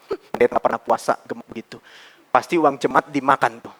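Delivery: low, quick muttered judgement; lightly voiced gossip, trailing into a murmur; mock gossip. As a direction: imitate congregants grumbling behind the pastor's back. Voices gossiping congregation about the pastor.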